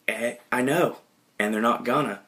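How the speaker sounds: soft, resigned mock answer; unbothered reply. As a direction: imitate a calm, knowing guru. Acted calm reply to the panic.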